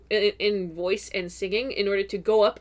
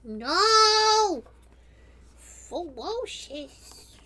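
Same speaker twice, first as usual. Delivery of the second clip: mock ferocious; 7 semitones higher, much slower than usual. Playful protest, high squeaky voice.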